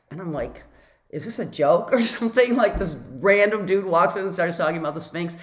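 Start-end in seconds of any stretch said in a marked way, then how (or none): 1.1-5.4 incredulous. Acted. Acts her disbelief at the coincidence.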